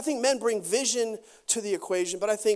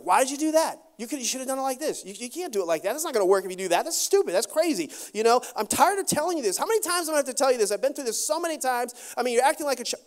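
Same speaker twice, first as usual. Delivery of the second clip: nagging wife; 3 semitones higher, much faster than usual. Retold or imitated. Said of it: "woman's like".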